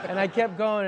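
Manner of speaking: can't stop giggling; laughing. Real, not acted. Telling the on-set blooper story, real laughter.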